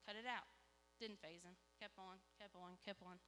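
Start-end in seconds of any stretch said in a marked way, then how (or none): 0.1-0.5 lightly angry mom warning; retelling a mom losing patience; retold parental scolding. Mom warns her small son at bath time, mildly angry. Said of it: "I'm getting angrier and angrier".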